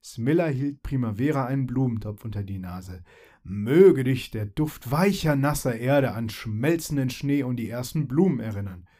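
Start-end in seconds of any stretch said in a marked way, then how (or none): 3.4-8.9 solemn. Acted. Fairy blesses her friend with spring scents, solemnly. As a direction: speak it like a festive vow. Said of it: "sagte sie feierlich".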